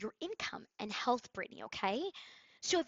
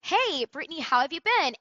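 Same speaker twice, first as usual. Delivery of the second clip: sample intro; 5 semitones higher, 5 dB louder than usual. Shown as a demonstration. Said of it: "we took".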